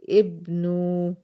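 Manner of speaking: ابنوا drawn out very slowly, the نو rounded with a damma and no ي sound; slow model word. Shown as a demonstration. Teacher repeats the correct form for students, slow and deliberate. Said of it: "فهقول إيه؟ ابنوا".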